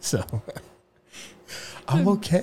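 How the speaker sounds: voice breaking on words. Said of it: "Your voice is cracking".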